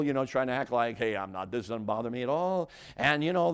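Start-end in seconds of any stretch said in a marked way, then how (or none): 1.0-2.7 feigned nonchalance, a touch lower; acting cool. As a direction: play it cool, as if unbothered. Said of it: "you're trying to act cool".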